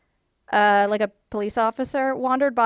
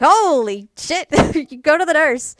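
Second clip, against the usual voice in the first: shocked teacher; 6 semitones higher, 7 dB louder than usual. Retold or imitated. Teacher sees student faint.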